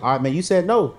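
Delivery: loud, high mock pep talk to God; mock bargaining. Telling God the yes had better come soon, loud and high. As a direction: hold God to the promise, half joking.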